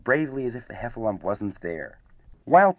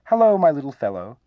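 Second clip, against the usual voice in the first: kindly greeting, higher and louder; 5 semitones higher, 7 dB louder than usual. A narrator's reading. Older guest answers the excited youngster, in a kindly way. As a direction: greet a little one indulgently, voice lifted. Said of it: "in a kindly way".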